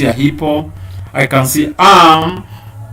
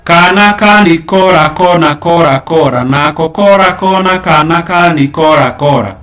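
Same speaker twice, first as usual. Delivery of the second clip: kana ka ni kora rattled off quickly and loudly; fast tongue twister demo; 4 semitones higher, 5 dB louder than usual. Shown as a demonstration. Teacher shows pupils the tongue twister, quick and bright. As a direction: show how quickly the tongue twister goes. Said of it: "so that you can do it like this".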